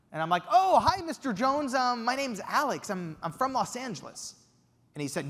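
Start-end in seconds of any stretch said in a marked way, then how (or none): 0.5-4.3 high, eager, slightly breathless hello; starstruck greeting. Retold or imitated. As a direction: gush nervously at a legend. Nervously greeting famous Quincy Jones.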